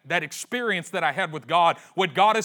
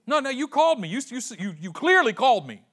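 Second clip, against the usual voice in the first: put-on insistent boy; 7 semitones higher, 5 dB louder than usual. Samuel insisting to Eli.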